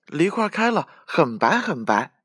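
high, small squirrel voice; happy little squirrel. A narrator's reading. Squirrel reporting pear blossom to friends, happy high voice. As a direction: announce it with high-pitched delight. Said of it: "小松鼠高兴地说".

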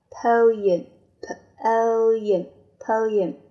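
poem repeated slow and clear; second reading. Shown as a demonstration. Teacher shows the other way to say poem. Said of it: "第二种读法".

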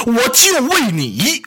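slow, choked words about to break into crying; on the verge of tears. Acted. Grieving mother tearfully accusing her son, choked. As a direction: drag it out as the tears come. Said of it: "国泰哭了".

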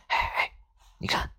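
hushed little attention-getter; furtive hush. A narrator's reading. Friend tugging Maomao aside, furtive hush. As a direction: get a friend's attention secretly, softly. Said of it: "悄悄地扯他一下".

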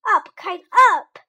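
high, loud shout at the kite. Acted. Toad shouting at the kite to make it fly, loud and high. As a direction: call it out hard and high. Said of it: "He shouted".

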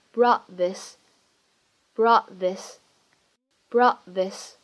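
"brought this" with the final t held back, unreleased; incomplete plosion. Shown as a demonstration. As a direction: stop the t of "brought" silently before "this". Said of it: "会有一个不完全爆破的处理".

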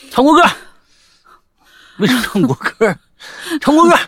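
high, loud barked order; police yelling. Retold or imitated. Police shouting orders at the dance leader, loud and high. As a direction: bark the order at the crouching man. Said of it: "警察过来就唱国".

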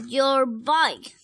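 loud, slow end of a threat; threatening. Acted. Rex threatening his twin's bike, loudly. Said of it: "threatened Rex".

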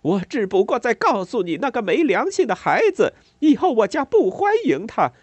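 high, loud, pained rage pouring out; anguished furious tirade. A narrator's reading. Mother raging at the neighbour over her son. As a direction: let the pain and anger flood out. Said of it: "仿佛一股痛苦、愤怒、挣扎的洪流".

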